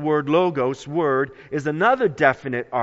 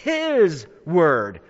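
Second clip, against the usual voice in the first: "his" stretched and stressed. Shown as a demonstration. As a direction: lean on "his", let "word" drop. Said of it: "Christ Jesus is emphatic about".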